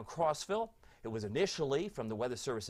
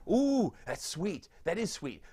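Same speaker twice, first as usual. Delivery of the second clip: cooing; 6 semitones higher, 4 dB louder, slower than usual. Real, not acted. Cooing over a sweet thought.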